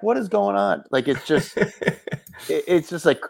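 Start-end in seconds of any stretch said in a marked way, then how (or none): 0.0-0.8 maniac voice. Retold or imitated. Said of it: "I just start to sound like a maniac".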